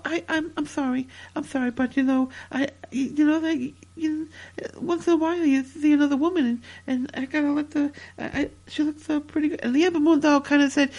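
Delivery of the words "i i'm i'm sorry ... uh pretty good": halting, fumbling excuse with false starts; stuttering apology. Acted. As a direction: stammer softly through an awkward apology. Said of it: "Stop your stuttering".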